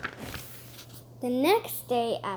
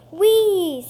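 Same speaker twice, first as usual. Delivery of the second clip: gleeful whee; 7 semitones higher, 12 dB louder than usual. Acted. Sliding down the chute.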